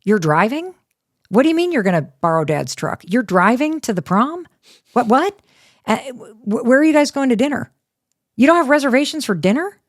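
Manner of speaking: an amped-up mom firing questions; frantic mom. Retold or imitated. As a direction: rattle off panicked questions at the kids. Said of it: "getting all amped up".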